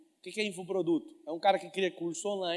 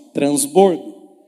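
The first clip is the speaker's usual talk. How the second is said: slow, loud proclaimed word; loud declaration; 3 semitones lower, 14 dB louder, much slower than usual. Shown as a demonstration. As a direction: declare it with your whole chest. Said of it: "Fala assim com a sua boca".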